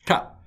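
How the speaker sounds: ta said as a breathy, unvoiced hard t; ta like in Indian languages; emphatic t. Shown as a demonstration. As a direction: whisper out a firm ta. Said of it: "if we pronounce it properly".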